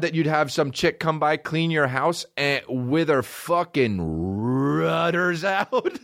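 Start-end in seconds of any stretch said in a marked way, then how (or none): 2.4-6.0 slow, laughing delivery. Real, not acted. Comedian cracking up at the ad, laughing. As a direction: laugh through the words. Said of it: "laughing at the ad".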